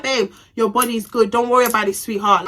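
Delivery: sugary fake-sweet compliment with a sting; happy shade. Teller mimics sweetly shading her friend. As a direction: throw shade sweetly, all smiles. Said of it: "I'm doing happy shade".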